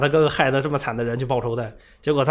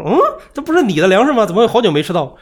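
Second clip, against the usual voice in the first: opens much higher and louder, stress on 会 in 怎么会好久没吃到; incredulous question; 7 semitones higher, 5 dB louder than usual. Retold or imitated. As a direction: catch the villager in a lie, 这不是 jumping up high. Player questions villager's lie. (惊讶地质问，突出"会"字)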